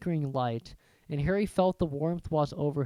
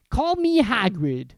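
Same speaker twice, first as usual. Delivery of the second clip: slow, loud, higher giant voice; Hagrid; 6 semitones higher, 7 dB louder, slower than usual. Acted. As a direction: introduce yourself like a friendly giant. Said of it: "he said".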